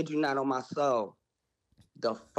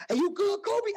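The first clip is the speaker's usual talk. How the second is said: lightly voiced high check-in; a hint of a football player checking on him; mock concern. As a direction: toss it off sweetly mid-brawl. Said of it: "while they saying".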